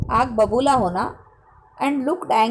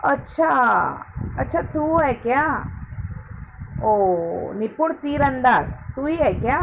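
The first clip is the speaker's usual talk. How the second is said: sarcastic. Acted.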